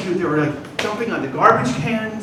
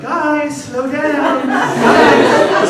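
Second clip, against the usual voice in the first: high-pitched mock call after kids; restrained calling out; 7 semitones higher, 6 dB louder, much slower than usual. Uncle to two boys running toward traffic, high restrained call. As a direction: call after them, holding back a yell. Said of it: "I'm not yelling after at them".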